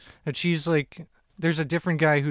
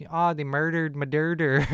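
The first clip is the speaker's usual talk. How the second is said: put-on Philly accent. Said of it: "saying, like".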